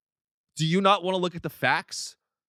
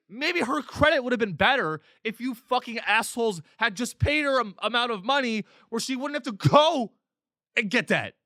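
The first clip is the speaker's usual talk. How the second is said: angry rant; 6 semitones higher than usual. Real, not acted. Ranting at employers about wages.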